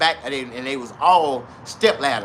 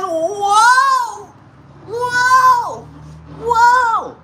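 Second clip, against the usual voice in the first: put-on high, loud old man whoas; 5 dB louder, much slower than usual. Old man groaning at his wife. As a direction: squeal it out like a startled old man.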